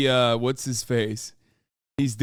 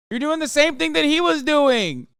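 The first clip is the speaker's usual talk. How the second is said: louder and higher, hammering the point home; exasperated shout; 12 semitones higher, 3 dB louder than usual. Real, not acted. Streamer yelling at chat over the fighter's form. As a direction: yell it at chat in disbelief.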